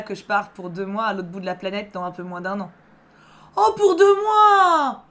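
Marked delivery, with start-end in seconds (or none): 3.6-5.0 high, loud, very slow mock cry; hammed-up sarcastic lament; sarcastic mock wail. Real, not acted. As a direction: wail it out in exaggerated outrage. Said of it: "Attends, parce que moi".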